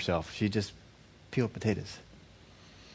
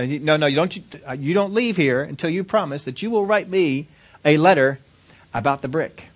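raised pitch, emphatic demand; insistent; 4 semitones higher, 3 dB louder than usual. Acted. Professor making the woman promise a letter, insistent. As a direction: press for the promise, leaning on the key word.

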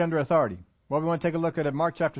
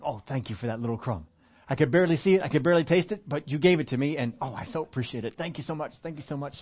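grateful little dog; 3 semitones lower than usual. Pretend. Pastor voices grateful little dog.

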